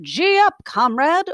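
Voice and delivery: pig calling out to the horses, pitch jumping high; a high, urging call to the team. A narrator's reading. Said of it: "a pig walking behind and calling out".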